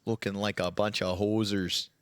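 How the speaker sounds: low-pitched joking Canadian commentary; mock Canadian accent. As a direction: play up the Canadian hoser talk. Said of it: "Sorry, Canadian for a second".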